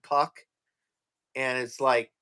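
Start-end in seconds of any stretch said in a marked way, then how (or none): 0.0-0.4 "puck" with P in place of F; Filipino F as P. Retold or imitated. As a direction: imitate "puck", P for F. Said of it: "every time he said".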